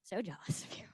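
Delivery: laughing out the words. Real, not acted. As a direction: laugh while saying it. Laughing through embarrassed admission.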